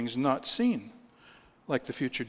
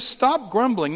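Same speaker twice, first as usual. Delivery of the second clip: higher and louder, a firm preacher's order; forceful pulpit stop grumbling; emphatic command; 7 semitones higher, 6 dB louder than usual. Shown as a demonstration. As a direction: bark it out as a stern command. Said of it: "So he says".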